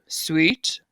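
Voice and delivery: SWEET said low; low-voiced SWEET, a pitch exercise. Shown as a demonstration. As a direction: drop the pitch right down on SWEET. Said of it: "but say it low".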